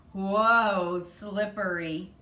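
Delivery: loud startled whoa as he slips. A narrator's reading. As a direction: yelp it like you're losing your footing. Slipping on the chair seat.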